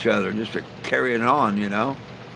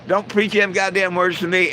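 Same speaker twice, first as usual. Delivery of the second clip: higher-pitched mock yell for a bird; lightly voiced parrot, pitched up; bird's mock yell; 6 semitones higher than usual. Joke teller repeating the bird's line, mild high mock yell. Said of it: "and the bird yells".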